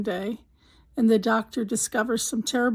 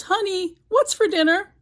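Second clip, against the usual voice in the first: yelling across the house; 8 semitones higher than usual. Retold or imitated. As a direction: call out to a wife in another room. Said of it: "So he yells".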